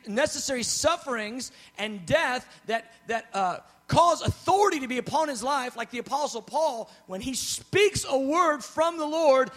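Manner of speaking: full-force preaching. Acted. Preacher urging his beloved congregation on spiritual warfare, full-force preaching. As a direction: preach it out with rising power.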